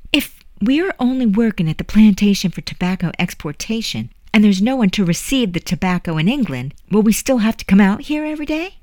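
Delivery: put-on a child pestering with worried questions; young girl's questions.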